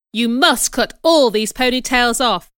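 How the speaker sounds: loud, insistent command; stern order. Acted. Man ordering the girls' ponytails cut, stern and loud. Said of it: "he ordered".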